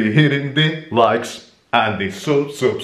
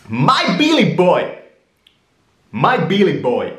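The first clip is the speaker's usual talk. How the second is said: very high, fast falsetto; high squeaky voice; 10 semitones higher than usual. Shown as a demonstration. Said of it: "that doesn't sound like a hillbilly".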